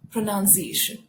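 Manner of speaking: PRONUNCIATION said pruh-nun-see-AY-shun; correct pronunciation. Shown as a demonstration. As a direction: model PRONUNCIATION with 'nun' as second syllable. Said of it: "Now that is".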